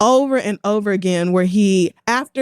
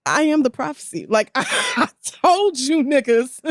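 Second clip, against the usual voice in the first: imitated vindicated I-told-you-so, pitched up; Aaron McGruder; 4 semitones higher than usual. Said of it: "Aaron McGruder saw this and was like".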